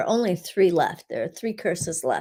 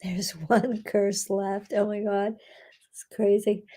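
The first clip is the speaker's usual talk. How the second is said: awed whisper. Real, not acted. Healer whispering to the group that one curse remains. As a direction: breathe it out in awe.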